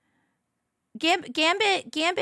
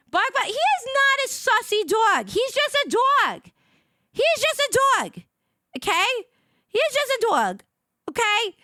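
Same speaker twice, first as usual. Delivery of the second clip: put-on a touch of squeaky baby talk; 11 semitones higher, 5 dB louder than usual. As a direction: plead for the dog in a high voice. Defending the dog, high voice.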